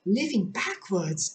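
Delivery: a touch of mild astonishment; astonished. Acted. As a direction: echo it in disbelief. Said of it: "in great astonishment".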